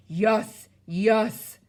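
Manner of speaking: loud giant insisting; short booming bursts. A narrator's reading. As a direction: boom each word separately. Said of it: "boomed the Blood Bottler".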